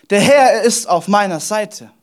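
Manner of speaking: slow, emphatic declaration; full conviction. Acted. David declaring God is with him, full conviction. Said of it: "er spricht da voller Überzeugung".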